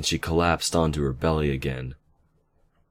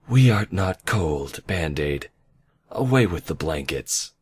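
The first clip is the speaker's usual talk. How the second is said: haughty royal voice. Acted. Nightmare Moon scolds nurse.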